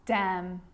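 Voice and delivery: "Damn" ending on a held M, no N; careful model of "Damn", closing on the lips; silent N. Shown as a demonstration. Teacher giving silent N examples, careful isolated word. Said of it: "it actually is silent when it's next to".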